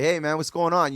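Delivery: acting out an excited welcome; excited greeting. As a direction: retell an excited hello to a friend. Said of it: "I'm excited 'cause I see him".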